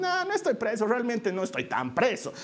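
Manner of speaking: mock denial. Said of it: "no se hace al loco".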